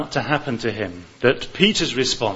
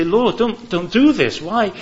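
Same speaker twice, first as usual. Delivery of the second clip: higher, urgent plea of a protesting disciple; pleading like Peter; 5 semitones higher than usual. Pretend. Preacher voicing Peter's protest to his Lord, pleading higher. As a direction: beg the Lord not to go through with it. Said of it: "like Peter, say".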